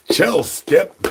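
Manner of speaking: high sharp "Chill, Skip"; scolding. Real, not acted. Streamer scolding excited Skip, high and loud. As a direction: snap at Skip to calm down.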